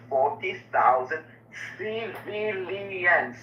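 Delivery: slow lead-in, then CIVILIANS drawn right out; stress on CIVILIANS. Real, not acted. Pressing an opponent on his own word, CIVILIANS slowly emphasized. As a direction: stretch "civilians" syllable by syllable, very slowly. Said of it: "my emphasis here on, is on the word that you use is civilians".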